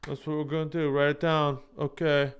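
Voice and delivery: mock a governor happily rubber-stamping a bad idea. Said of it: "they're just like".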